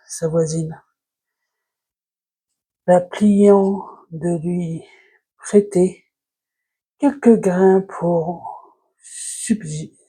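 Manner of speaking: slow, halting verse reading; fable reading. Acted. Vlogger reading La Fontaine's fable to viewers, halting recitation. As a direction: read the verse in short phrases with long pauses.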